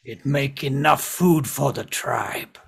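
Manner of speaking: slow, lightly voiced goblin; measured goblin speech; goblin explaining. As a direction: spell it out slowly as a goblin. Game master voices goblin explaining stone.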